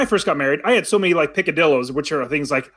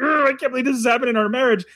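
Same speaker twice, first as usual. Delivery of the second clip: mock exasperated groan, rushed and higher; frustrated; 5 semitones higher, faster than usual. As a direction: replay your old frustration in a hurry. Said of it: "being so, like, frustrated".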